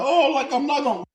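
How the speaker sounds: high mocking whiny voice; mock crying whine. Mocking people who cry online in a high whine. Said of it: "on the internet crying like".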